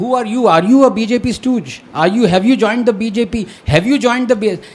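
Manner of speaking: angry, accusing, high and loud.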